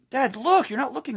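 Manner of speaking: put-on high, insistent little girl; little daughter voice. Daughter to dad on his phone, high and insistent. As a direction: complain like a six-year-old ignored. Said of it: "she's saying".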